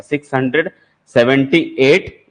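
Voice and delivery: "सिक्स हंड्रेड" then a pause, then "सेवेंटी एट" drawn out slowly; slow chunked reading. Shown as a demonstration. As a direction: spell the number out slowly for students. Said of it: "ऐसा". (धीरे-धीरे रुककर संख्या पढ़ना)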